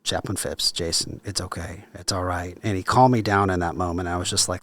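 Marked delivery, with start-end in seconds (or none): 0.0-2.6 kindly. Retold or imitated. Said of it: "he very kindly said".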